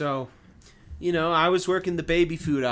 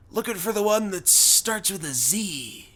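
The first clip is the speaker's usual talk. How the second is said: lightly imitated redneck, slightly raised; Hulk Hogan; 4 semitones higher than usual. Redneck customer describing what he wants, light Hogan-style voice. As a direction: ask like a wrestler puzzling over groceries. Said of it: "sounds like his voice is like Hulk Hogan".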